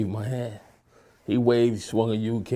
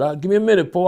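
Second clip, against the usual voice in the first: higher and louder call to Poe; 8 semitones higher, 8 dB louder, much faster than usual. Retold or imitated. Stalling Alpo before going upstairs, raised call. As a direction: call back to stall him.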